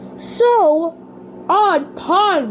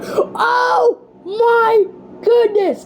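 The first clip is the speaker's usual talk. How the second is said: reveal shout; 4 semitones higher, much slower than usual. Acted. Countdown reveal of the taste.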